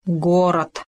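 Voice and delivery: terse, understated reply; short and glum; brief answer. A narrator's reading. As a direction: answer in one short word. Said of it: "коротко ответил медведь".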